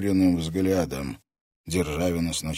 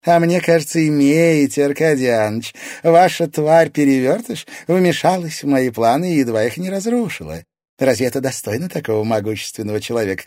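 higher, louder, icy noblewoman voice; cold lady of shadows; 8 semitones higher, 8 dB louder than usual. A narrator's reading. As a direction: rebuke him like a haughty lady. Lady of shadows confronts lord.

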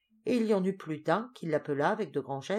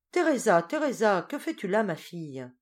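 loud, higher call across the crowd; 4 semitones higher, 6 dB louder than usual. A narrator's reading. Mother calling Teresa back from the villagers, loud call. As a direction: call your daughter back from afar. Mother calls her daughter.

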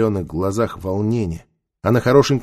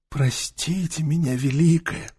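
тихо и медленно, с раскаянием; мягко извиниться старым голосом; голос старого мага; 6 semitones higher, 5 dB quieter, slower than usual. A narrator's reading. Таита apologises. (кающийся старец, негромко)

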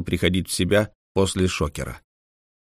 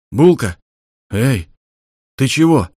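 louder, worried call; captain calling the frozen robot, louder; 3 semitones higher, 5 dB louder than usual. Acted. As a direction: shake the robot awake with your voice.

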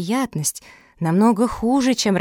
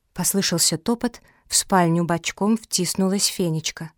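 ordinary delivery, nothing marked

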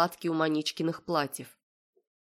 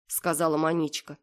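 usual speaking voice

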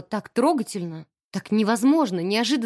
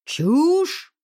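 louder and higher roar of one word; thundering; 6 semitones higher, 5 dB louder than usual. Acted. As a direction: boom it out like a thunderclap. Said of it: "прогремел".

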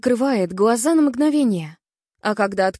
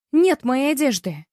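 ordinary delivery

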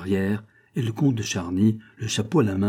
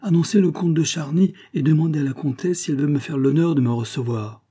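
high, formal call from the next room; visiting count; 6 semitones higher, 4 dB louder than usual. A narrator's reading. Count asking the concierge to announce him, formal. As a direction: announce yourself with courteous ceremony.

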